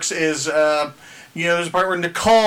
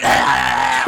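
mock raptor shriek; 6 semitones lower than usual. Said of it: "the sister comes out going".

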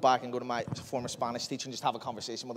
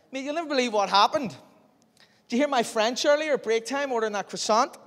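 excited; 8 semitones higher, 4 dB louder than usual. Retold or imitated. Excited telling mate at lunch.

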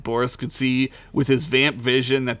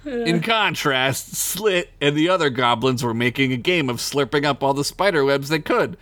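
reading a comic fantasy tale aloud; storyteller voice; story narration. Acted. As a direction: narrate with mock gravity.

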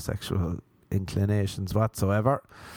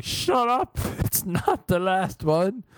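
mock outburst; 8 semitones higher, slower than usual. Snapping back at lying teacher.

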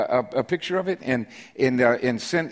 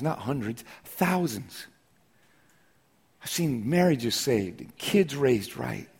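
hushed testimony; 5 dB quieter than usual. Real, not acted. Pastor confiding to congregation what he has seen, hushed. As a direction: drop to a confiding hush. Intimate testimony after preaching.

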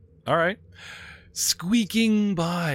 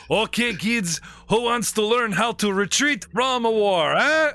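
higher, mock-cheery teacher tone; a sarcastic mentor addressing kids; mocking character voice; 8 semitones higher than usual. GM voices a bitter veteran to the kids, mock-cheery.

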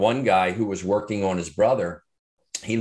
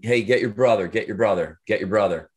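retold yell; 3 dB louder than usual. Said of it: "And I'm yelling to him".

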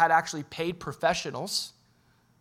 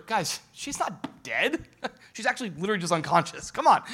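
mock literal Jesus; 3 semitones higher than usual. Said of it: "Jesus isn't saying, like".

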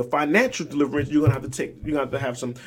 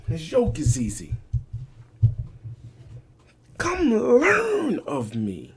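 much higher, very slow; preaching; 3 semitones higher, slower than usual. Acted. Preacher voicing Jesus's call to listeners, slow high intoning. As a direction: sing it out slowly.

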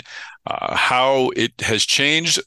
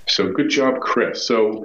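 sounds like a bag over the head; muffled, poor headset sound; muffled audio; slower than usual. Real, not acted. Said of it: "I'm gonna be a little muffled".

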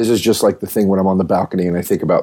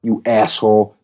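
angry thought; 4 semitones higher than usual. Retold or imitated. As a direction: spit it out like you're furious at him. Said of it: "I thought in my head, I was so angry".

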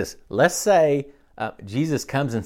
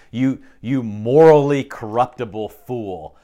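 mock insult; 5 dB louder than usual. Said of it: "think of slander".

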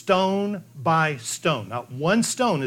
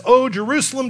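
lamenting cry; 8 semitones higher, 5 dB louder than usual. Acted. Jesus lamenting over Jerusalem.

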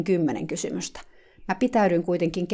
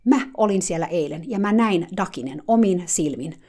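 curt; 5 dB louder than usual. Retold or imitated. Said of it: "hän sanoi napakasti".

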